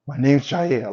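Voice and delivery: a touch of smooth bad-boy intro; mild bad-boy swagger; spicy bad boy. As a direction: say "My name's Jair" like a cool bad boy. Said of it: "Jair just sounds spicy".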